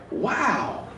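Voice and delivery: lightly voiced rude audience member, laughing through it; mocking audience. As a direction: tease him like a heckler, laughing. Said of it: "You guys would be like".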